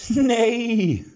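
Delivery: very high, loud drawn-out nee; dismissive dwarf. A narrator's reading. Dwarf brushes off the execution question, high and loud. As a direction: wave it away. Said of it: "wiegelte der Zwerg ab".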